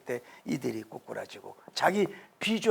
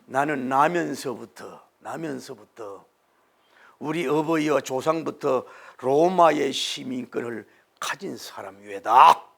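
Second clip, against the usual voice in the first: solemn dignified claim; 4 semitones lower than usual. Acted. Paul's solemn claim, low and slow.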